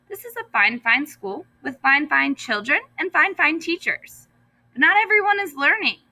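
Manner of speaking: high, ringing announcement; grand announcement. A narrator's reading. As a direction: proclaim it to the whole school. Principal's big announcement.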